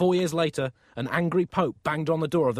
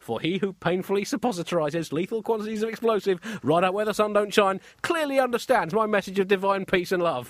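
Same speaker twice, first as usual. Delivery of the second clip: angry Allah; 5 semitones higher than usual. Acted. Allah interrogating a failed bomber at judgement, exasperated. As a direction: hammer out an indignant telling-off. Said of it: "picture the angry-looking Allah with his clipboard".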